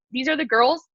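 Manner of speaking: burping through the line; a burp on the words. Real, not acted. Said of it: "Sorry, I'm burping a lot".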